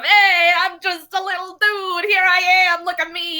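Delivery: lightly voiced cocky little automaton; little dude persona. Chattering away at these people, brash little persona. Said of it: "trying to keep up this persona".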